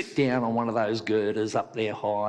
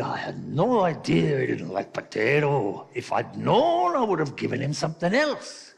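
Irish wife; 3 semitones higher, 3 dB louder than usual. Acted. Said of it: "The Irishman's wife said".

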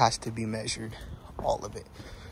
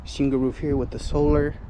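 out of breath; 3 semitones higher, 4 dB louder than usual. Real, not acted. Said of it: "Damn, out of breath".

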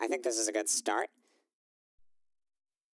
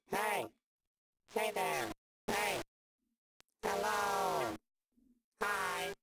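much higher, cheerful greetings; new effect test voice; 8 semitones higher, slower than usual. Shown as a demonstration. Testing another vocal effect with friendly hellos. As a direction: greet everyone brightly through the effect.

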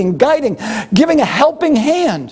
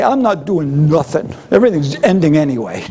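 lower, mocking shrug of a voice that breaks into a laugh; mock gloomy quitter; 6 semitones lower than usual. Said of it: "walk out depressed and say".

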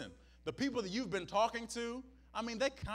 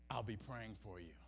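much lower and much softer, dismissive; mock hollow sympathy; 12 semitones lower, 13 dB quieter than usual. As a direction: toss it off low and empty. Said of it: "this is our help".

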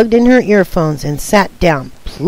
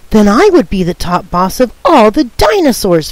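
excited exclaim; 2 semitones higher than usual. Acted. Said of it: "Ferdy exclaimed".

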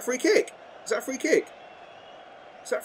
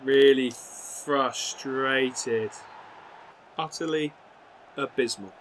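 frustrated; much slower than usual. Real, not acted. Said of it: "You can see I'm frustrated".

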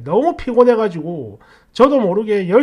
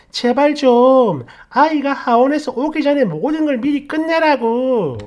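raised, louder scolding of a husband; mock wife scolding, higher and louder; nagging wife; 4 semitones higher, 3 dB louder than usual. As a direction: imitate her exasperated nagging, pitch up. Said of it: "막 이러면서 뭐라 하는 겁니다".

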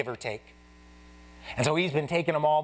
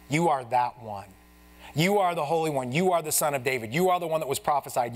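repeated YOU driven home line by line; rhythmic sermon build on you are; preaching cadence. Real, not acted. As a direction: build the list like a litany.

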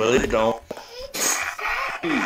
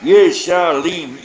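slow, drawn-out command; 3 dB louder, slower than usual. Shown as a demonstration. Demanding a ghost leave, said slowly and firmly. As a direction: order the spirit out slowly. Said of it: "You gotta say it better than that".

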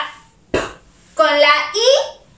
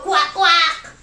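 duck quack. Shown as a demonstration. Imitates the duck just read.

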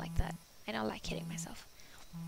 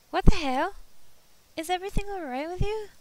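alarmed shout; 8 semitones higher, 10 dB louder than usual. Acted. Friend shouting on phone.

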